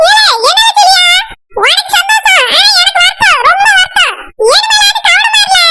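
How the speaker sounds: angry scolding. Acted. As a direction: scold him for undressing in front of the visitor.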